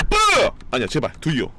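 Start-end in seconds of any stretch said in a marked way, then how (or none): 0.1-0.5 sharp high yell; high shout. Real, not acted. Streamer yelling at the roulette. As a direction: pop one high syllable out. Cheering the item roll.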